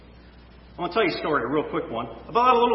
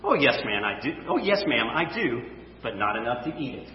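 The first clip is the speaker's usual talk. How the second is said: put-on sweet little girl; 6 semitones lower, 3 dB quieter than usual. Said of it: "The girl replied sweetly".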